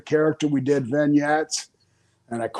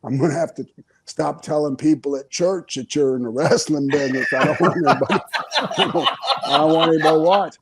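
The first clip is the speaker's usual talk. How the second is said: mom's voice. Retold or imitated. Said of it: "she's going".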